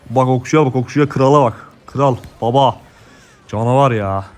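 loud, proud cheering; excited hyping. Real, not acted. Player cheering his archer as a king, excited hyping. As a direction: shout praise for your champion.

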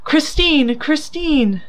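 high, despairing cry of a name; moaned call. A narrator's reading. Lover calling his lost beloved on the stage, high moaned call. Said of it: "he moaned".

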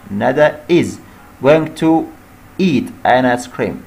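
each word drawn out slowly for the class; slow dictation. Shown as a demonstration. Teacher dictating the answer slowly to students. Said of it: "وإحنا قلنا هنا going to قبلها am is are".

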